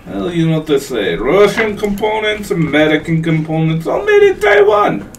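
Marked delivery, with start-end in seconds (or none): 1.2-5.1 shouted, rising much higher at the end; hammed-up announcer shout; mock slogan shout. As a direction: belt it out like an ad.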